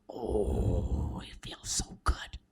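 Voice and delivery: a lightly voiced dog groaning mid-stretch; half-whispered stretching pleasure; lazy stretch. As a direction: sigh it out like a luxurious stretch.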